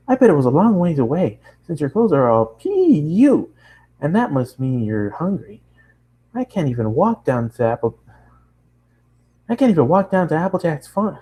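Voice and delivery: high, excited nonstop chatter; bubbly pony girl. Acted. Bubbly girl chatters at the new traveler, high and excited. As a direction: gush at the newcomer in a bright rush.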